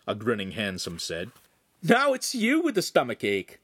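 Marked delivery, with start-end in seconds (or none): 1.8-3.6 high, mocking crow; gleeful taunt. A narrator's reading. Lincoln laughs at the suffering Podesta, gleeful taunt. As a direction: rub it in. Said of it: "Lincoln laughed".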